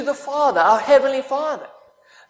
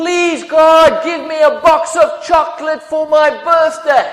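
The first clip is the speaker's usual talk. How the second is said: put-on loud, childlike yelling like a boy; 3 semitones higher, 6 dB louder than usual. Telling a joke about a young boy praying, imitating a yell. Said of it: "A young boy yelled".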